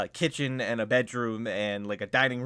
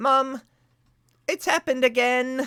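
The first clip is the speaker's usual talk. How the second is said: put-on very high, loud, shouting girl's voice; 13 semitones higher, 7 dB louder than usual. Voicing a girl calling toward a back door: girl shouting to her mother. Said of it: "she just sort of shouts".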